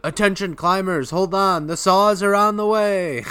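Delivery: high-pitched mock pilot calling out; hammed-up pilot hailing from above; pilot announcement. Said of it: "you can hear a pilot".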